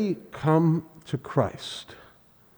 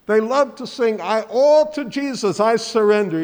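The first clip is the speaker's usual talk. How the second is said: Southern preacher impression, raised and loud; imitated Southern Georgia accent; 6 semitones higher, 7 dB louder than usual. Pastor imitating a guest preacher quoting a hymn, loud Southern accent. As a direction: belt it like a Georgia Baptist preacher. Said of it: "all in that Southern Georgia accent".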